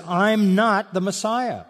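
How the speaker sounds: slow and emphatic, weight on "not"; emphatic denial. Retold or imitated. Preacher voices John denying to the questioners, emphatic and slow. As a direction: lean on "not" in "I'm not the Messiah", slowly. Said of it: "he emphatically says".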